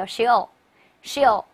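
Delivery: shell, shell said very slowly; very slow model reading. Shown as a demonstration. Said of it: "一块儿念一下". (极慢示范shell)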